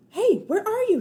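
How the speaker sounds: high, loud searching call. Acted. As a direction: call down the empty hall. Searching empty hallway.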